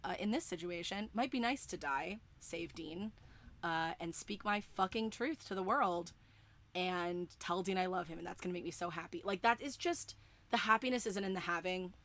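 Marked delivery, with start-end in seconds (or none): 0.0-9.2 softly spoken, offhand afterthought; Castiel reconsidering. Retold or imitated. Fan voicing Castiel deciding it's nice to die, quietly casual. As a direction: drop the volume, muse it casually. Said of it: "But then he's like".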